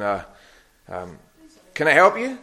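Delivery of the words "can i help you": intercom voice. Retold or imitated. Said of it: "this voice came through the box saying".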